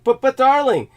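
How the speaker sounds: pompous English darling; affected English voice. Pretend. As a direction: play the refined English gentleman. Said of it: "why are you speaking like that?".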